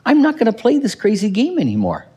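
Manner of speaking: lightly voiced resolve; breaking free. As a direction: leave the family mess behind. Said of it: "and say".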